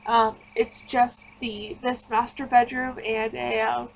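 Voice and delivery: yawning through the words. Real, not acted. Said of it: "Sorry, uh, about the yawning".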